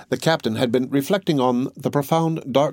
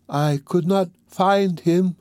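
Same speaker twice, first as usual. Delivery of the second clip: cold reply; 7 semitones higher, slower than usual. Acted. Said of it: "said Quasimodo coldly".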